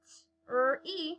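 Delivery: T, R, E as separate letter sounds; short T, then R, then E, each set apart; sounding out. Shown as a demonstration. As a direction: segment T, R, E for a young learner. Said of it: "so far we have".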